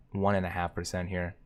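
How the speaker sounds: ordinary talk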